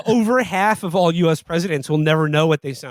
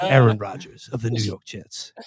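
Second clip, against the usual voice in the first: lightly kept deep singer's voice; 6 semitones lower than usual. Pretend. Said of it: "like a famous singer".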